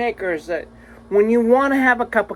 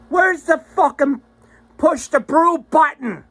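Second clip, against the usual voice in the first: annoyed outburst; 6 semitones higher, 4 dB louder than usual. Retold or imitated. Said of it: "and then you're like".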